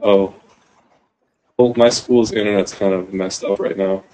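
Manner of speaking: glitchy internet robot voice; words chopped by bad connection; robotic voice. Real, not acted. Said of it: "are you turning into a robot?".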